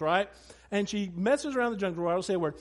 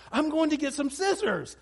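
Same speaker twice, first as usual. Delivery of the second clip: higher-pitched imitation of an eager little girl; excited child; 6 semitones higher than usual. Dad retelling his daughter's scissors plan, mock excitement. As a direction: announce it like an excited kid. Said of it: "she was so excited".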